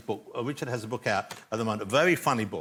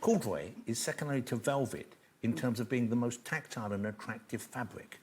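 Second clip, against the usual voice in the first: mock gravitas; 5 dB quieter than usual. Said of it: "to give this some gravitas".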